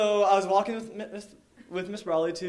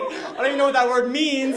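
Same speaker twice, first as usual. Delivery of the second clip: laughing through it, higher and louder; half laughing, half freaking out; retelling a childhood panic through laughter; 8 semitones higher, 10 dB louder than usual. Retold or imitated.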